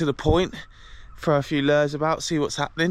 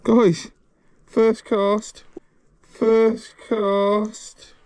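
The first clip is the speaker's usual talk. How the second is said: excited; 6 semitones higher, 3 dB louder, much slower than usual. Real, not acted. Surprise at first catch.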